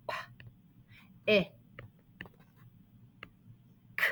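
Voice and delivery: P, I, K one short sound at a time, long pauses. Shown as a demonstration. Teacher working through the first syllable, sounding out. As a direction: say "P, I, K" as isolated phonemes. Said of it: "First syllable".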